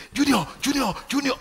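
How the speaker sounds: put-on high calling out to a kid on the field; cheering parent. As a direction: call your child's name like a proud parent in the stands. Parent cheering at child's game.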